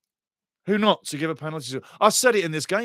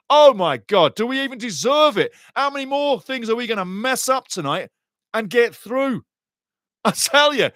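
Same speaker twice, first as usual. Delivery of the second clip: high-pitched giddy disbelief; incredulous excitement; 7 semitones higher, 3 dB louder than usual. Real, not acted. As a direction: cry out, amazed at the luck. Disbelief at the lifeline given.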